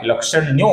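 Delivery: लक्षण्यो ending in O; visarga becomes O. Shown as a demonstration. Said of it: "ओ हुआ है".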